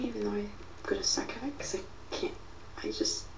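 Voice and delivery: soft whisper; quiet at night. Real, not acted. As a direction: keep it hushed. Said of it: "I'm sorry I'm talking quiet".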